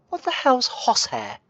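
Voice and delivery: high, startled disbelief; a burst of puzzled outrage; baffled retort. Retold or imitated. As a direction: react as if the word makes no sense. Baffled by the dad's friend's word.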